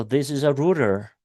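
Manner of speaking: learner's attempt at Boston, "router" said as "rooter"; Boston accent. Shown as a demonstration. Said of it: "You've got that Boston accent coming through with that router".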